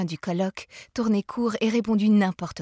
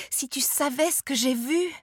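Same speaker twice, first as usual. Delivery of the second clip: furious; 7 semitones higher than usual. A narrator's reading. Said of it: "saisie de fureur".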